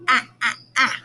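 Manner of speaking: ah, ah, ah as short biting a sounds. Shown as a demonstration. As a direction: bite out ah, ah, ah. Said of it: "take a big bite".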